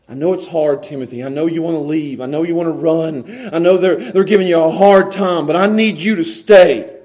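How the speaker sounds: gentle reassurance. Acted. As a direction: comfort a tired friend. Paul gently encouraging.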